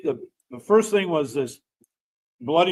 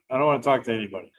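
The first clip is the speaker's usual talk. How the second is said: laughing; 3 semitones lower, much faster than usual. Retold or imitated. Dreading talking to the drunk.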